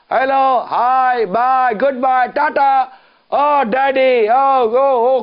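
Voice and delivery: mimicking a westernized youngster calling his daddy; mocking westernized child. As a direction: drag out the hello and bye like a pampered kid. Mocking modern kids' greetings.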